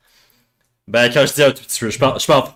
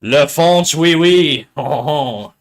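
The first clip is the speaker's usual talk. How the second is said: hammed-up French stereotype with a laugh; mock French; 2 semitones higher, much slower than usual. Streamer teasing a French raider, mock French accent.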